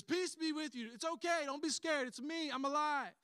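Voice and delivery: loud, high, eager reassurance; urgent reassurance. Acted. Jesus appearing to scared disciples, loud reassurance.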